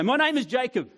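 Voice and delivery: proud declaration. Pretend. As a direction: say your name with head held high. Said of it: "Or does he go".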